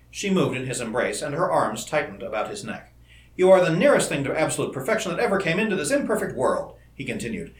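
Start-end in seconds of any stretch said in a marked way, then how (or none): 3.4-6.7 ardent praise, pitched up; impassioned compliment; fierce intensity. A narrator's reading. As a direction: adore them with earnest fervor. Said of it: "he continued with a fierce intensity".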